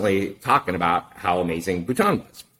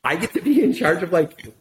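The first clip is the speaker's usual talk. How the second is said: thrilled disbelief; 8 semitones higher than usual. Retold or imitated. Thrilled at the offer.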